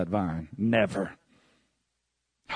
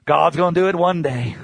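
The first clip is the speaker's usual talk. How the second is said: mocking laugh; 4 semitones higher, 5 dB louder than usual. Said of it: "mocking passive believers".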